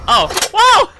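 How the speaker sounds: high, loud whoa; amazed whoa. Real, not acted. Watching the boot come off, a high loud whoa. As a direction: blurt out in surprise.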